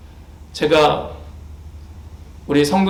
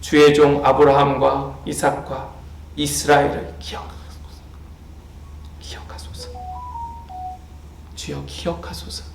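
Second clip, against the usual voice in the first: softer and softer, fading into a whisper; hushed prayer; 5 semitones lower, 7 dB quieter than usual. Retold or imitated. Moses pleads with God to remember, fading to a whisper. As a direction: pray it low, as if only God may hear. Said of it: "하나님께 이렇게 기도하는 거예요".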